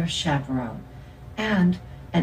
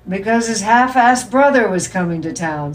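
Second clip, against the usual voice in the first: delighted; 4 semitones higher, 6 dB louder than usual. A narrator's reading. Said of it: "delighted at himself".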